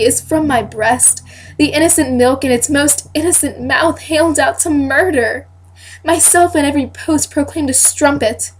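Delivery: measured stage declamation rising in force; Hermione. Acted. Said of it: "I am reading as the character Hermione".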